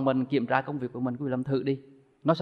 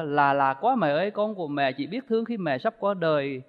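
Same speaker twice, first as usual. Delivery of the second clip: mournful poem recital; 2 semitones lower than usual. Retold or imitated. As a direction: recite it like a lament for mother. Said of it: "bắt đầu nói lỗi là".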